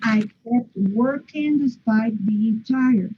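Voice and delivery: one flowing phrase falling at the end on tired; sentence intonation. Shown as a demonstration. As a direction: read it as one unbroken line. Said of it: "the intonation here is".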